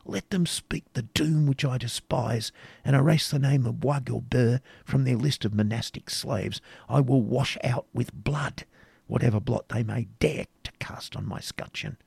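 a passionate knight tempting her to flee with him; animated. A narrator's reading. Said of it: "proceeding with animation".

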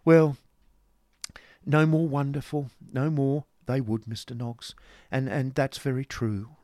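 high-voiced, flustered lady; agreeable Missus Nickleby. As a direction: open loudly, then prattle on high.

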